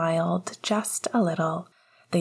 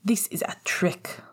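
sneering. A narrator's reading. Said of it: "Walburga sneered".

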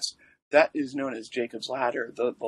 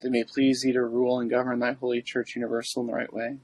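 prayer. Acted. Recites the litany.

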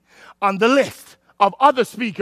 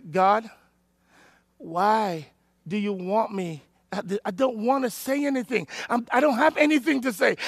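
quiet prayer; 7 dB quieter than usual. Retold or imitated. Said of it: "I went home that day and I said".

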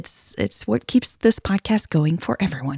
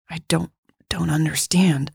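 stammer; 4 dB quieter than usual. Acted. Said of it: "Jade stammered".

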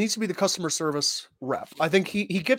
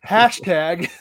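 phone menu voice; 4 dB louder than usual. Acted. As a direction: talk like a patient robot menu. Automated menu error reply.

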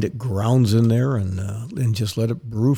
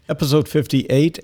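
Episode fifty-eight called out higher, rising; hyped announcement; 5 semitones higher than usual. Real, not acted. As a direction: pump up "Episode fifty-eight" like a show host. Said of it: "Holy cow, fifty-eight".

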